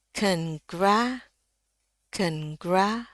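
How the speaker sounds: "congra" with schwa, then wide æ; American pronunciation. Shown as a demonstration. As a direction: say "congra" in two syllables, rising on gra. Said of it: "Ini kita masih yang Inggris Amerika". ("congra" gaya Amerika, gra bernada naik)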